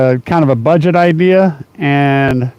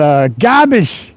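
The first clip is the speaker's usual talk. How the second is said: mock Boston accent; slower than usual. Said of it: "I'm just not very good at it".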